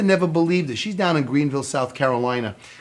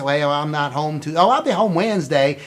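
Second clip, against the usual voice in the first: mock Southern customer on the phone; hammed-up Southern twang; bad Southern accent. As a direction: answer in a fake down-south accent. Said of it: "That's my bud accent".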